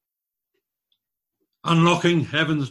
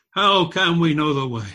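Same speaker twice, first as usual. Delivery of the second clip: Thomas asking; 3 semitones higher, 5 dB louder than usual. Retold or imitated. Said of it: "Thomas once asked Jesus".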